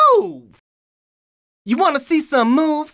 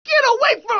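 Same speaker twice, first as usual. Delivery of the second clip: high, urgent cry to back off; acted panic building to a scream; alarmed warning; 6 semitones higher, faster than usual. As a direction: fend them off in a raised pitch. Fending someone off before a scream.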